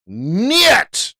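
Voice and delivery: high, emphatic shouted veto; loud mock refusal. Trader rejecting the Aussie yen idea, loud mock refusal. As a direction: shoot it down with a shout.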